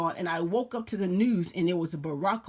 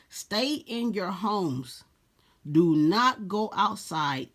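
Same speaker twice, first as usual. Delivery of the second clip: radio emergency warning; 3 dB louder, much slower than usual. Acted. Radio warning read aloud.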